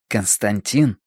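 understated, quivering rage; trembling with fury. A narrator's reading. Brother at his sister's bedside, trembling with rage. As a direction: say the name with contained fury. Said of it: "Голос его дрожал от ярости".

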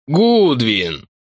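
glad loud cry of a name; shouting. Acted. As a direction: shout it out with joy. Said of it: "закричал он". (радостно закричал)

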